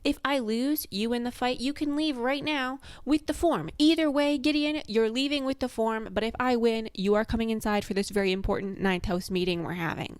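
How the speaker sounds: a lightly voiced posh British girl laying out terms; posh British accent. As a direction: play Harrow prim and British, a touch lofty. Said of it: "she's talking in a posh British accent, quite high-pitched".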